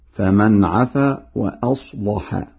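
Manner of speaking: slow reading, thick dark lam in "وأصلح"; Warsh heavy lam. Shown as a demonstration. Teacher gives another example, slowly thickening lam in "وأصلح". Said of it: "وكذلك يغلظ اللام في لفظ أصلح".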